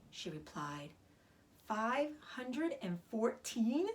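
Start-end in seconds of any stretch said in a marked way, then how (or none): 1.7-3.9 slow, stretched-out disbelief; amazed. Acted. Pig astonished by the egg count, slow amazement. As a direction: draw it out in wonder.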